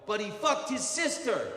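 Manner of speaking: high-pitched demonstration holler; yell. Shown as a demonstration. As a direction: shout it out as the line to copy. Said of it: "I need the third person to yell".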